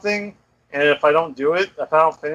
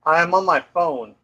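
bluetooth headset mic. Real, not acted. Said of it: "It sounds not as good".

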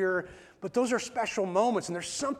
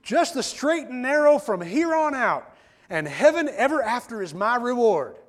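loud, high Southern proclamation; Delmar's Southern accent; 5 semitones higher, 6 dB louder than usual. Retold or imitated. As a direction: imitate a newly saved Southern country boy. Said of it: "I'm trying to do the accent properly".

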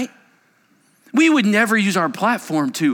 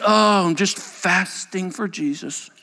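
slow, self-righteous humblebrag; hammed-up holier-than-thou fasting boast; mock pious; slower than usual. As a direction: fish for admiration slowly. Pious faster answers.

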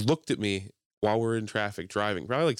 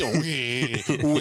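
mildly raised crybaby wail; mock crying; 3 semitones higher, much slower than usual. Mocking someone visibly angry in a fight, mock crying. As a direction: tease with a fake little wail. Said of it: "And then mock the person".

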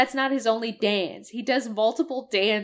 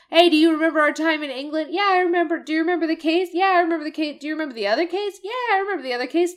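higher, louder, fast sing-song back-and-forth; mocking dialogue; 6 semitones higher, 4 dB louder, much faster than usual. Mocking the game's repetitive characters asking about England. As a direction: rattle off both parts in a high mocking singsong. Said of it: "where she says".

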